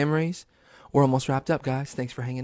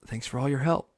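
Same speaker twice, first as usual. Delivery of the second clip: softer sign-off with a rising end; Steve; 4 dB quieter than usual. Retold or imitated. TV host thanking the viewers, gently imitated. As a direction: imitate the kids' host saying goodbye. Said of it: "that motherfucker was like".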